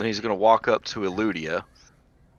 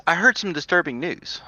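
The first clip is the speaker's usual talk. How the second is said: whispered, higher elf voice; whispering; 8 semitones higher than usual. Acted. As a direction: hush it like a secret. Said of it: "And then in her voice".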